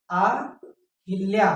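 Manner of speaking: अहिल्या drawn out very slowly; slow wrong version. Shown as a demonstration. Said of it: "अहिल्या नहीं होता है".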